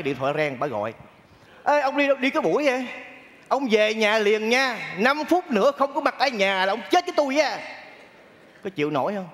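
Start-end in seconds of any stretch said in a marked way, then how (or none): 1.6-7.6 higher-pitched bossy ultimatum; imitated phone scolding, pitched up; mock angry wife. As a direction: nag him home like a threatening wife. Wife's angry phone call, acted out.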